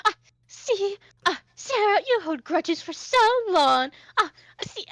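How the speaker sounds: high, loud theatrical whine; flamboyant Hoshi, protesting. Acted. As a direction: complain grandly that she holds grudges.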